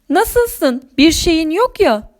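tiz, telaşla hal hatır sorma; merakla, sesi yükselterek sor; endişeli soru. Acted. Koşup kazazedeye sorar. (endişeyle soran anlatıcı)

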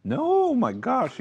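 high loud amazed gasp of words; astonished. Real, not acted. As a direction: burst out in amazed disbelief. Disbelief at the idea.

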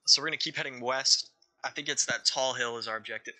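talking through hiccups; hiccupping between words. Real, not acted. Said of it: "I've got the hiccups".

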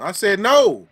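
a loud, insistent refusal; firm no. Real, not acted. Turning down the friend who asked her to cover a fart, loud refusal. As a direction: shut the request down loudly.

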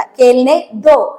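each syllable drawn out slowly for learners; slow, careful model phrase; slow teaching demo. Shown as a demonstration. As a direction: say it very slowly so the class can copy. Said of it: "അങ്ങനെ പറഞ്ഞോളൂ നമ്മള്".

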